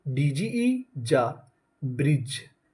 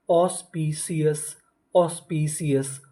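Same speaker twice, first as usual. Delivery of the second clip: slow model word; slower than usual. Shown as a demonstration. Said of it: "ऑस्पिशियस का मतलब होता है पवित्र".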